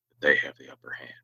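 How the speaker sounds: hushed, foreboding whisper; ominous whisper. Acted. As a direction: drop to a whisper for the warning. Warning about Buchanan's tricks.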